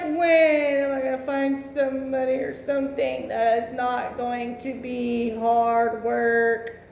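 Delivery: mildly voiced weary man, slowing at the end; weary inner voice. Bored Aries man wondering aloud, lightly voiced weariness. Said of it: "He's like".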